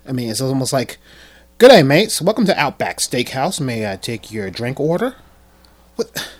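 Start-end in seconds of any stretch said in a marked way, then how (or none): 1.6-5.1 lightly voiced cheery waiter greeting; mock restaurant server. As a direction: greet diners like an Outback server, starting loud. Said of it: "I sound like a server from Outback Steakhouse".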